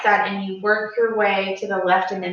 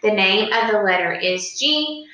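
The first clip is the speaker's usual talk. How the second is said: teacher call and response. Shown as a demonstration. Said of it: "I'll say it twice, you say it twice".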